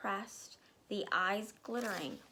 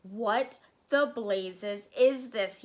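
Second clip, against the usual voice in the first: loud, slow shaken yell; angry yell; 6 dB louder, slower than usual. Acted. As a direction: demand it of the room. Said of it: "yelled the Trunchbull".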